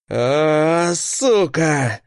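loud, raw bellow of pain; roar. A narrator's reading. Dex learns the truth and roars in fury. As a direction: roar like a wounded beast. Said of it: "заревел Декс".

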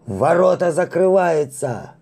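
high, loud, slow alarmed cry; blurted shout. Acted. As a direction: fire it back in alarm. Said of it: "выпалили ему в ответ".

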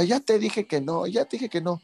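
voz de papá estricto, aguda y lenta; papá regañón. Retold or imitated. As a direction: imita al papá necio. Padre regañando en la anécdota. (papá regañando)

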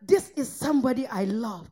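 low, soft words over a dead friend; understated, hushed grief in a retold scene; grieving Jesus. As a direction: quietly voice a mourner's sorrow. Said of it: "He looked at the body".

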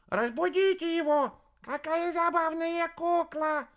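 very high squeaky chatter; chattering cubs. A narrator's reading. Cubs chattering around guests.

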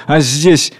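growing anger. Acted. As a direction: let the anger build into commands. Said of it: "Загорается гневом". (нарастающий гнев)

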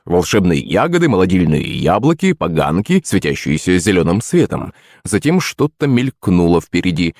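ordinary delivery, nothing marked

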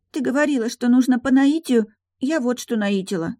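put-on high childlike voice; little girl. A narrator's reading. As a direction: explain like an earnest little girl. Daughter explains. (высокий детский голос)

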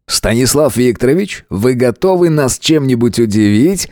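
showman host teasing the contestant; ringmaster. Acted. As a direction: ask like a stage host. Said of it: "обратился ко мне ведущий".

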